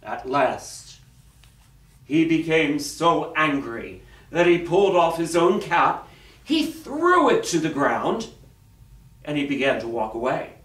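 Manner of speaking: dramatic storyteller with long pauses; story narration. A narrator's reading. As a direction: read it to children, phrase by phrase. Reads a picture story aloud.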